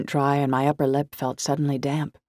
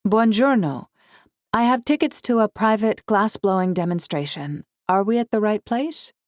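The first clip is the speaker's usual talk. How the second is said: bright eager greeting; 7 semitones higher, 4 dB louder than usual. Acted. Cheerful Italian greeting.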